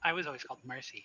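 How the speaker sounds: very prissy, prim, soft little voice. Voicing the husky-shepherd mix dog stating its old name, put-on prissy dog voice. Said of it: "in a very very prissy voice is like".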